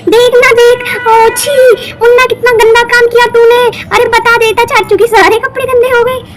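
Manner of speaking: high, giggly teasing about the mess; gleeful teasing. Acted. Woman teasing the family about uncle's soiled clothes, giggling. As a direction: laugh at uncle's bad luck while telling it.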